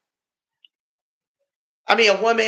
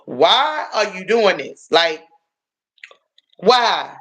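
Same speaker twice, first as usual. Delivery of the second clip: exasperated plea. Retold or imitated. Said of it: "I was like".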